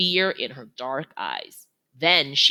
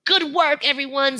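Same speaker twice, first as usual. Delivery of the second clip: praising elephant leader; 10 semitones higher, 3 dB louder than usual. A narrator's reading. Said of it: "says Akelo".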